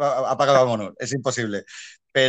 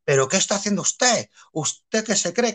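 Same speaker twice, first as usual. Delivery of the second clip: scolding director; 8 semitones higher than usual. Retold or imitated. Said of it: "es lo que pone".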